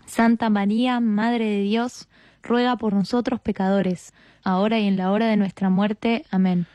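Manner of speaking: measured, level-toned prayer response; rosary response. Real, not acted. Answering the leader's Hail Mary, recited prayer. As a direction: answer in a steady recited cadence, settling on Amen.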